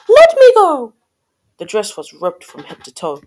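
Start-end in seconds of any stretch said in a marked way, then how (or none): 0.1-0.9 loud, high-pitched Cindy squeal; high shout. A narrator's reading. Cindy grabbed by the prince, shouting high. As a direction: yell it high to break free. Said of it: "as Cindy shouted".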